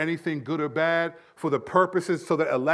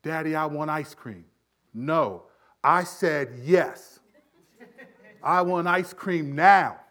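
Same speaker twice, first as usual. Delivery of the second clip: lightly voiced toddler building from plain to loud insistence; demanding two-year-old; 4 dB louder, slower than usual. Two-year-old insisting to daddy on ice cream, lightly acted and demanding. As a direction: play a child demanding, louder by the end. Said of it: "let your two-year-old tell you".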